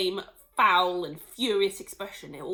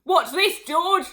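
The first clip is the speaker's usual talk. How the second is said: loud, higher gleeful shout; 9 semitones higher, 12 dB louder, slower than usual. Acted. Mister Cranky shouting to George across the yard. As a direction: shout it out in delight. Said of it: "Mister Cranky shouted".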